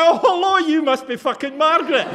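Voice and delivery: high, loud mock-posh hello with a laugh; mock polite greeting. Speaker greeting Margaret in mock-polite high voice. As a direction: greet her with exaggerated politeness. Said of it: "I was like".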